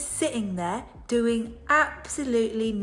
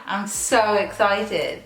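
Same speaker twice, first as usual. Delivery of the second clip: sarcastic; 2 semitones lower, slower than usual. Real, not acted. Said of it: "are you being sarcastic?".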